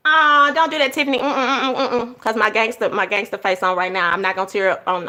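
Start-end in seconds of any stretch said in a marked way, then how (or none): 0.1-2.2 holding back tears. Real, not acted. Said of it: "I don't do that crying online".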